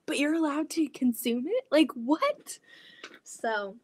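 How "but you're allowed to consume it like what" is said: incredulous. Retold or imitated. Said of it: "So I'm like".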